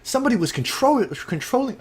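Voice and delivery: lightly put-on English accent, rising high at the end; a hint of hammed-up English accent. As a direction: read it out in a mock English accent. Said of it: "Should I just do an English accent".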